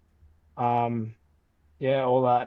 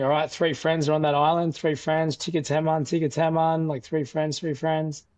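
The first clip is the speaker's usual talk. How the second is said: retold yelling; 4 semitones higher than usual. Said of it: "I started yelling at them".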